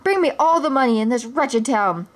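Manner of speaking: a hint of a petty tyrant; cruel snarl. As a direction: bark orders at the sheriff. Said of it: "Prince John snarled cruelly".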